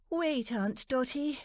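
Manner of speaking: high, carrying appeal; calling out. A narrator's reading. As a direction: call out urgently to stop her. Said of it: "she called out".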